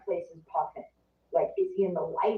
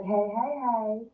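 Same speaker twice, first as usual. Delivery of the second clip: higher, singsong imitation of a friend; melodic greeting; 6 semitones higher, much slower than usual. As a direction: lilt it like a melodious hello. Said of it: "her voice had melody".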